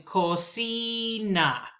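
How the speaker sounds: cocina drawn out slow, stress on CI; cocina, push only with the voice. Shown as a demonstration. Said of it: "just your voice".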